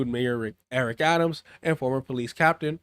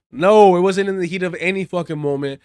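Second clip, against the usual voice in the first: louder, heated rebuttal; angry rant; 6 dB louder than usual. Real, not acted. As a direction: tear into the excuse. Angry rebuttal of politician's excuse.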